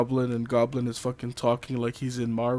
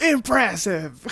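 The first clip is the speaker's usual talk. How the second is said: slow, laughing villain exclaim; Goblin voice; 7 semitones higher, 5 dB louder, slower than usual. Retold or imitated. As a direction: draw it out with a laugh. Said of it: "X Factor's like".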